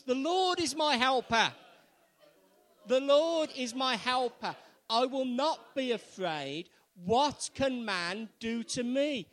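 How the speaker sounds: loud, high, emphatic proclamation; rousing, forceful statement of faith. Shown as a demonstration. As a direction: declare it boldly for all to repeat. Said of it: "say it with a bit more confidence".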